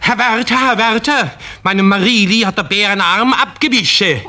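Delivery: high, urgent cry to the keeper; lightly voiced panicked old woman; panicked grandma. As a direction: shriek for the zookeeper in alarm. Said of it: "plötzlich schreit sie".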